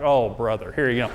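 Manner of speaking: laughing mock alarm from the wife. Husband voices his wife mocking his approach, laughing. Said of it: "she's sitting there like".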